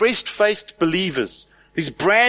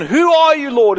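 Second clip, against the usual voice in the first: crying out; 7 semitones higher, 5 dB louder than usual. Acted. Repeats Paul's cry.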